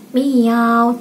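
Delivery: drawn-out "miau"; imitated cat meow. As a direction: copy a simple cat sound like a child learning. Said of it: "dia bisa ikutin". (menirukan suara kucing, miau panjang)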